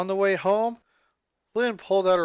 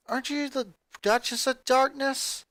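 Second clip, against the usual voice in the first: teasing jab; 7 semitones higher than usual. Acted. Teasing her goth sister.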